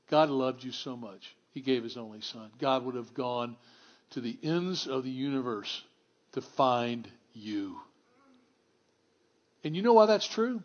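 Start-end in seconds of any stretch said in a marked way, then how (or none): 0.1-7.8 softer, hushed and tender, slowing at the end; gentle assurance of love; tender preaching. Acted. Pastor reassuring listeners of God's love, tender and hushed.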